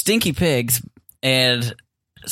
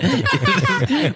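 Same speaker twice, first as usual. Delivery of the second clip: pig grunting. Retold or imitated. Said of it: "I do a pig impression".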